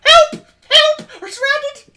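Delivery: high, loud panicked cry; man down shout. Acted. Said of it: "and like".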